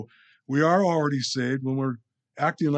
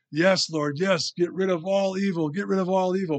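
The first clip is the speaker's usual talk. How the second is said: mildly raised, eager mock prayer; eager plea; 5 semitones higher than usual. Believer praying for evil's end, mock-eager plea. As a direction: plead keenly, pitched a little higher.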